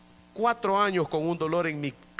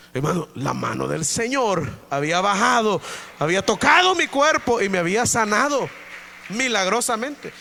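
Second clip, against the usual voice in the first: louder, rising joy at the healing; jubilant testimony; 4 dB louder than usual. Real, not acted. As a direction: proclaim the miracle loudly. Testimony climax. (testimonio jubiloso y fuerte)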